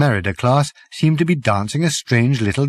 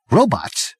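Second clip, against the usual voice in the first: sharp. Acted. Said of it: "said Zaphod sharply".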